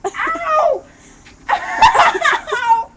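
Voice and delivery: high loud yelps with laughter; laughing through the sting; stinging pain. Real, not acted. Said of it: "it hurts really bad".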